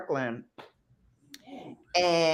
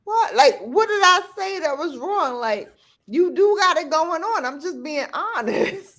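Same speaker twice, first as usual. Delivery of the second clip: put-on high-pitched little-kid protest; protesting toddler; 10 semitones higher than usual. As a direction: imitate a small child innocently defending himself. Toddler defends his remark.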